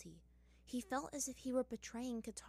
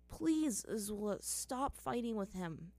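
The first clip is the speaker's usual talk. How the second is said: near begging; slower than usual. Acted. Aang pleading with Azula to stop fighting, begging. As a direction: beg her to stop, almost desperate. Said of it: "Aang nearly begged".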